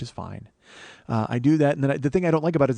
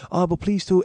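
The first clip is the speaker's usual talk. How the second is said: put-on pleading, polite Japanese-accented English; imitated Japanese businessman, raised pitch; soft Japanese accent; 5 semitones higher than usual. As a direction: press the request gently in a Japanese accent. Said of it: "gonna do that Japanese voice".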